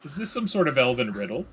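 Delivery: puzzled questioning, rising at the end; lightly acted bewilderment. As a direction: ask it as a baffled barmaid. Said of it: "She's now puzzled".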